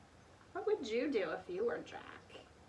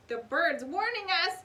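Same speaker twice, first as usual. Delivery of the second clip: louder, higher frightened shout; alarmed shout; 7 semitones higher, 6 dB louder than usual. A narrator's reading. Pinky warns the others, loud and alarmed. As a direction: cry out the warning. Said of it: "shouted Pinky".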